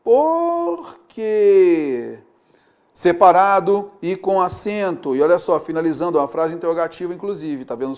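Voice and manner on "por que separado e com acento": put-on child asking. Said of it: "E a criança continua".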